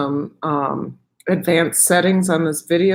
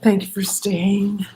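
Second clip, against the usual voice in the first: hushed whisper so guests keep sleeping; breathy unvoiced whisper; 3 semitones higher, slower than usual. Real, not acted. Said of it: "I'm gonna have this whisper voice".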